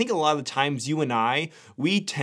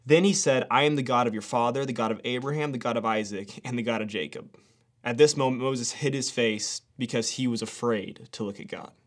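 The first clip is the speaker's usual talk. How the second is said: steady devotional reading voice; scripture reading; 3 semitones lower than usual. Acted. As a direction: read the passage with reverence. Reads scripture passage aloud.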